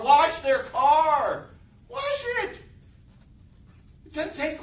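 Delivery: loud, high, drawn-out order; exasperated command. Real, not acted. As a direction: shout it slowly, as if obvious. Rebuts the staff's excuse loudly.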